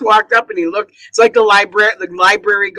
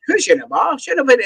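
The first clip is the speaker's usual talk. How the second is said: mock toddler gibberish; 9 semitones higher than usual. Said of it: "he just speaks gibberish".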